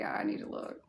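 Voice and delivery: "I need to look" whispered to herself; "I need to look" breathed out in a whisper. Shown as a demonstration.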